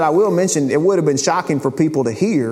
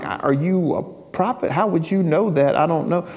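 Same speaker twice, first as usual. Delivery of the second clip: genuine confusion. Shown as a demonstration. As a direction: ask it as if truly baffled. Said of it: "like, genuine confusion".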